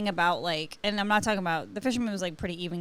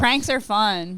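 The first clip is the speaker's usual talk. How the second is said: slow pranks line; 4 dB louder, slower than usual. Shown as a demonstration. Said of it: "repeated catchphrase".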